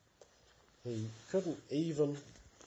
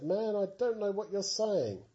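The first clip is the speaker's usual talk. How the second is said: higher, louder denial; Peter's desperate denial; 7 semitones higher, 5 dB louder than usual. Acted. Peter denying that he is a Galilean, a higher, louder protest. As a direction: deny it with rising panic.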